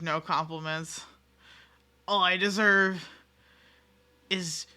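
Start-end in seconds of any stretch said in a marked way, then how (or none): 2.1-4.7 whispered, hammed-up despair; mock-tragic whisper of self-pity; mock dramatic whisper. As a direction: drop to a breathy stage whisper of doom. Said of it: "I can't even say that seriously".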